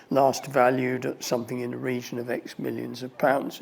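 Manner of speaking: lightly voiced tour guide spiel; tour guide commentary. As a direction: reel off the facts like a bored guide.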